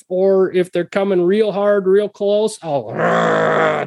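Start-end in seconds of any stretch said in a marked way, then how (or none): 2.9-3.8 short growled rah; coyote growl. Shown as a demonstration. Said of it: "just growl at 'em".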